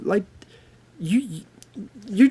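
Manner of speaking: flabbergasted stuttering. Speaker responding to people mad about an ad, flabbergasted stuttering. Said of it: "I'm stuttering because I'm, I'm flabbergasted".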